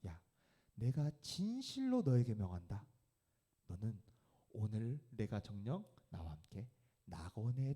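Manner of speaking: solemn promise. Acted. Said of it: "예수님은 이렇게 이야기하십니다". (강도에게 천국을 약속하는 예수, 느리고 조용하게)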